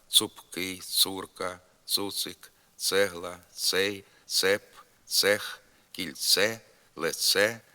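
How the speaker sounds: hard plain ts in цап, цокати, цегла. Shown as a demonstration. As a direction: keep ц unsoftened before а, о, у, е, и. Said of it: "вимовляється твердо тільки перед літерами".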